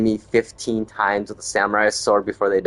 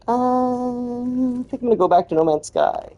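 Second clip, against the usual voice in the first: put-on high, tired old-timer voice; whiny old gamer; mock old gamer. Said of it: "and now I'm like".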